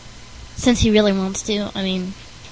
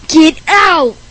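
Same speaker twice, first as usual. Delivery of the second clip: raised, exasperated command; annoyed order; 6 semitones higher, 8 dB louder than usual. Acted. Host telling Rick Berner to leave, annoyed order. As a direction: order out an unwanted visitor, voice lifted.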